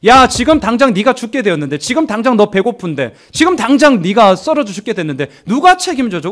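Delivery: high-pitched, urgent goading; tempting devil. Acted. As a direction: play the devil pressing someone to doubt. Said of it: "우리들을 유혹하는 거예요".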